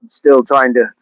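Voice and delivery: lightly put-on Jamaican lilt; Jamaican accent. Shown as a demonstration. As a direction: attempt a Jamaican accent that slips toward Irish. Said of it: "like a Southern Jamaican accent".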